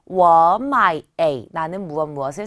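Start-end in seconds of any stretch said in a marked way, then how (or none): 0.1-1.0 워 마이 joined, 워 loud and rising into a dipping 마이; second-plus-third tone demo. Shown as a demonstration. Teacher repeats the correct pattern, rising tone then third tone. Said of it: "요렇게".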